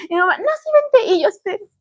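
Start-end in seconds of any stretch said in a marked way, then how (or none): 0.4-1.1 imitating mom. Mom insisting they leave.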